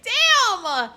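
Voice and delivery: high, loud laughing exclamations; laughing shriek. Real, not acted. Streamer flustered by the flirting, shrieking with laughter.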